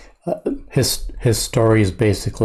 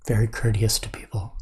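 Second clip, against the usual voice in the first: whisper; 5 dB quieter than usual. Pretend. Joking about polite driving.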